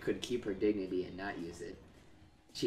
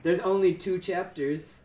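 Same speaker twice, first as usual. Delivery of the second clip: high-pitched; 8 semitones higher, 7 dB louder than usual. Real, not acted. Sudden high loud slow line.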